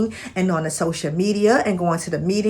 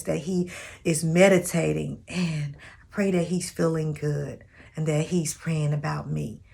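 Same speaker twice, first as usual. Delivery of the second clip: prayer. Shown as a demonstration. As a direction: demo prayer for a future husband. Gives a prayer as an example.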